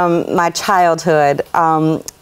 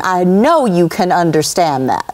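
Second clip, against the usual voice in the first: mildly stern mama, evenly said; firm retold scolding. Mama to the teacher about raising her children, mildly firm imitation. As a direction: put the teacher on notice, without raising the voice. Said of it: "gave that teacher a piece of her mind".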